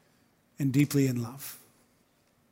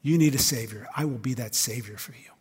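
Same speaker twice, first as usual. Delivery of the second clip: tender; 5 semitones lower than usual. Acted. Jesus speaking tenderly to woman.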